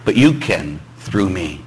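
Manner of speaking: slow, softening prayer; humble prayer. Acted. Praying to the Lord about difficult people, humble and slow. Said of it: "get out of the way and say".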